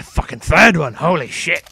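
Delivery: loud, excited exclamation; amazed outburst. Real, not acted. Game player spotting yet another animal, amazed.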